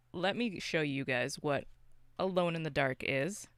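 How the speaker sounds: ordinary talk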